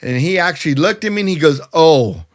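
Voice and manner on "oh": loud smart-ass "oh"; mock smart-aleck reaction. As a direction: imitate a smirking doubter. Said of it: "real smart ass like".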